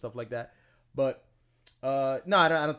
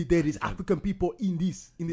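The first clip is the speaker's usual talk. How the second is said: put-on higher, Haitian-sounding African accent; 4 semitones higher, 4 dB louder than usual. Showing co-host his African accent, higher and hammed-up. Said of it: "every time I do an African accent, it sounds Haitian".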